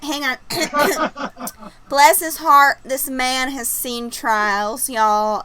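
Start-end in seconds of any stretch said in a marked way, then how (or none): 1.9-2.8 Southern twang on a sympathetic phrase; put-on Southern accent. Shown as a demonstration. Host showing off her accent to friends, Southern accent. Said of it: "let me get out my accent". 2.8-5.4 slow Southern drawl; put-on Southern accent. Shown as a demonstration. Host describing her trying neighbor, slow Southern accent. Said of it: "let me get out my accent".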